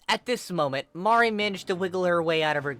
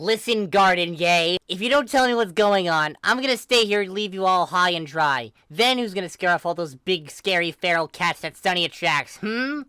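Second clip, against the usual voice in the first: louder, smug teasing threat; 5 semitones higher, 8 dB louder than usual. Acted. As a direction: needle him, then a high hmm. Aubrey threatening to leave.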